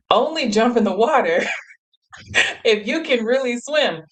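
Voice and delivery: laughing through the words; giggling while quoting the warning. Retold or imitated. Retelling the guide's warning, laughing.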